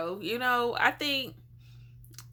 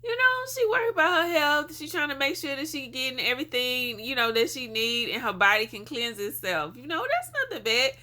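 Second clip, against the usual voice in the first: high, put-on voice defending her friend; mock high-pitched defender; 6 semitones higher than usual. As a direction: lay on a squeaky sweet defense.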